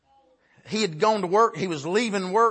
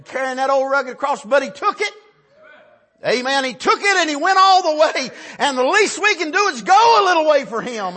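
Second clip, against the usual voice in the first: raised pitch, building to loud cries; impassioned pulpit delivery, growing louder; full-force preaching; 7 semitones higher, 7 dB louder than usual. Real, not acted. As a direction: build the fervor phrase by phrase.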